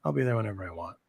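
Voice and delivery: imitating own can't-be-bothered attitude; complacent, lazy. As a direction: toss off an idle excuse, trailing down. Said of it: "I'm complacent, I guess, or lazy".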